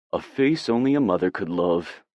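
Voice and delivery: teasing sing-song to the dog; lilting playful coo. Acted. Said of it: "I mock in a sing-song voice".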